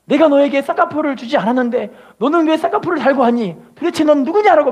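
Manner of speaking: lightly voiced stern Lord asking; mock heavenly interrogation; God questioning. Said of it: "우리 주님이 분명하게 천국에서".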